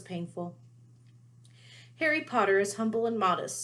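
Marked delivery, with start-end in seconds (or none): 2.0-3.6 high, hushed elf awe; a lightly voiced reverent elf; reverent house elf. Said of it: "said Dobby reverently".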